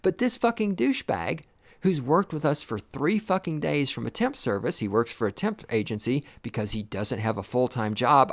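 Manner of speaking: ordinary talk, nothing marked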